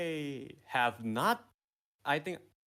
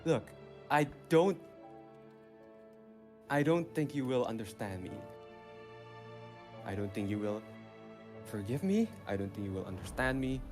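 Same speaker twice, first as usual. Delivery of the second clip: evil monologue. Acted. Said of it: "let me do my evil monologue".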